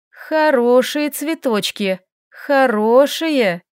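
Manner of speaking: slow, strained sweet talk to monsters; forced cooing. Acted. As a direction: coo at them through a fake smile. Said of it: "натянуто улыбаясь". (натянуто ласково, медленно, с улыбкой)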